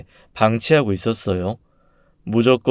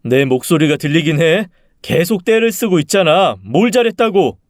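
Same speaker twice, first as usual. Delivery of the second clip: higher, indignant father's rebuke; angry scolding; 5 semitones higher, 3 dB louder than usual. Acted. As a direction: tell off a child who won't stop. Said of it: "꾸짖었죠".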